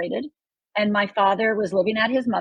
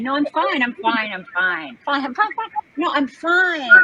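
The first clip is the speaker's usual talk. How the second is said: brushing it off; 5 semitones higher than usual. Retold or imitated. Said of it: "The outside Rhonda, who's fine".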